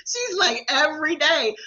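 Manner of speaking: high, still giggling; laughing. Real, not acted. Preacher quoting her cousin to viewers, high and still laughing. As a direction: quote it through leftover laughter.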